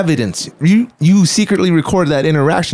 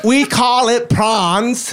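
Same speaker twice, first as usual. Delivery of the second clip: put-on high, slow Australian accent; mock Australian accent; 5 semitones higher, much slower than usual. Teaching the proper word, high mock Australian accent. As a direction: put on a stretched Aussie accent. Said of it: "I am from the land down under".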